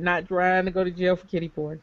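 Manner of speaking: laughing repeat. Real, not acted. Host repeats a joke to co-hosts, laughing.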